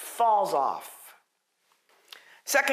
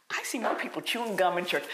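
laughing whisper; 4 semitones lower, 5 dB quieter, faster than usual. Real, not acted. Aside about gum in church.

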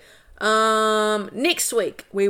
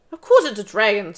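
crossly; 5 dB louder than usual. Acted. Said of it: "said Sorrel crossly".

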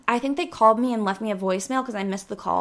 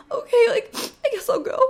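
reluctant giving in; 12 semitones higher than usual. Retold or imitated. Giving in to mom.

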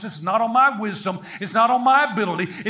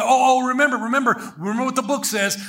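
hurried, lightly acted urgency; mild mock panic; 4 semitones higher, faster than usual. Hunter reminding his friend as the bear comes, mild mock panic. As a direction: urgently remind your hunting buddy.

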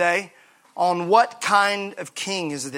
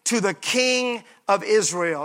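slow proclamation; slower than usual. Shown as a demonstration. Pastor reading the crowd's slow praise aloud. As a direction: draw out the praise slowly. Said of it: "watch what they say here".

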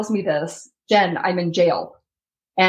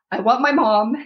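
tearful plea; 3 semitones higher, faster than usual. Retold or imitated. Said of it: "these were my thoughts".

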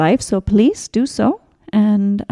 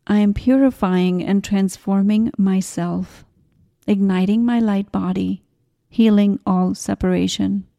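affirmation. Acted. Recites spiritual affirmations.

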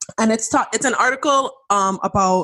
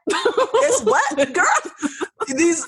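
sassy outrage; 5 semitones higher, slower than usual. Pretend. Mock confronting friend.

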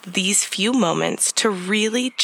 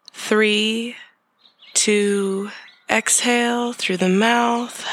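guided meditation. Acted. Leads a breathing meditation.

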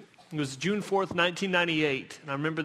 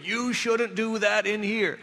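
slow, prim scolding church tone; tut-tut the kids in the hallway; mild churchy reproach; 3 semitones higher, slower than usual. Retold or imitated. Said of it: "like, this particular churchy voice".

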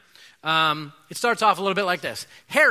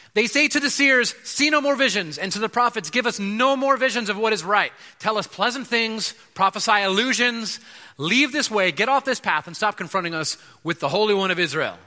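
demanding king; 4 semitones higher than usual. Retold or imitated. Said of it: "this would be the king talking".

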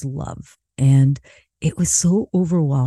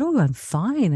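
high, airy brush-off; retold "nothing's wrong" voice; feigned okayness; 6 semitones higher than usual. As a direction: cover up being upset, pitched up. Hiding tears from concerned friend.

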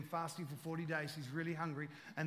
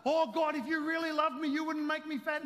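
mock whining prayer; 10 semitones higher, 8 dB louder than usual.

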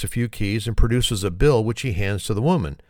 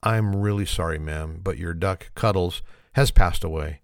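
understated sorrow, falling lower; mildly sad vet; 3 semitones lower than usual. Acted. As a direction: break bad news with a touch of sadness. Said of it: "says sadly".

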